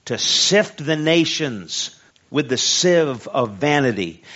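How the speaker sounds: preacher's measured, ringing scripture delivery; scripture reading. A narrator's reading. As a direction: read the verse out strongly, leaning on key words.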